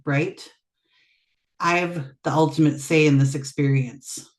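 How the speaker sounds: measured recitation of a poem; poetry reading. Acted. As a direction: read it in deliberate phrases with pauses. Guest reads own poem.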